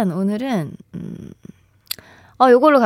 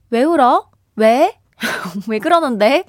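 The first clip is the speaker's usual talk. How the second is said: mock-nosy questioning, breaking into a laugh; curious questioning. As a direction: press for the reason, playfully. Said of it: "이유를 궁금해하는". (장난스럽게 이유를 캐묻듯)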